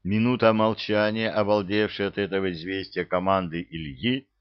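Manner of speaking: usual speaking voice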